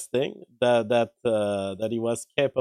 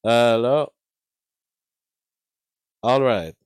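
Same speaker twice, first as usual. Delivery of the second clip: louder hello to test compression; loud mic test; 7 dB louder than usual. Shown as a demonstration.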